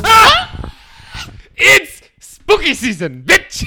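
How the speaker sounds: spooky shriek. Pretend. Spooky Halloween intro shriek.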